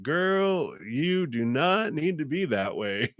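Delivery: high-pitched, sassy telling-off. Acted. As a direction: scold playfully, pitched well up. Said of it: "your guides are being all sassy".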